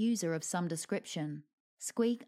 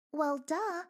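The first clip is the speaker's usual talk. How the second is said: sarcastic duh; 9 semitones higher than usual. A narrator's reading. Squeak mocking.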